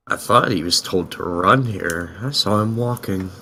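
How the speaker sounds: low, soft, slow aside; under his breath. Acted. Aiden grumbles about the man told to run here, under his breath. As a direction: grumble it quietly to yourself. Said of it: "Aiden says under his breath".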